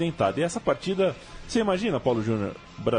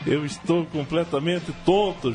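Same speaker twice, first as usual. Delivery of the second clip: imitating the commentator; 6 semitones higher, slower than usual. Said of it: "já diria Jorge Perestrelli".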